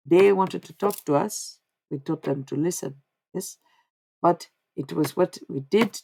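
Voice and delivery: lightly put-on Indian accent; loose, unpractised Indian accent, measured and emphatic; channeled Indian man. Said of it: "If I start talking like him, he was Indian".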